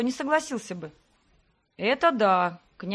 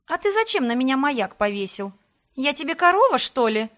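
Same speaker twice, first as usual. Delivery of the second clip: indignant; 4 semitones higher, 5 dB louder than usual. Acted. Heroine indignant at tracker.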